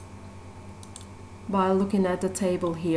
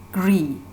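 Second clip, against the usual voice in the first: "Gri" said by itself as the stressed part of agreement; stressed syllable alone; 3 semitones lower than usual. Shown as a demonstration. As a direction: isolate "Gri" as a clear single syllable. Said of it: "Gri part is stress syllable here".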